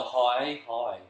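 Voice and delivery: "hi" said as the "how" in "How Now"; correcting pronunciation. Shown as a demonstration. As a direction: say "hi" for "how", firmly. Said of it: "No, no".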